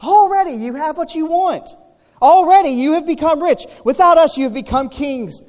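high, loud mocking scripture reading; exaggerated sarcastic praise. Shown as a demonstration. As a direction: read it dripping with sarcasm, pitched well up. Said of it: "So read it sarcastically with me".

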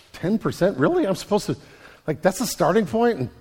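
mock shock at the idea of ten percent; a listener balking at the tithe, half-disbelieving; incredulous. Imagined listener balking at giving.

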